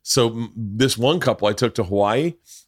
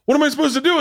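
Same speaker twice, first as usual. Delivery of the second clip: much higher-pitched imitation of a friend; retold helpless question; 14 semitones higher, much faster than usual. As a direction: ask it high, imitating the friend at a loss. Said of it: "Mark looks at me and he goes".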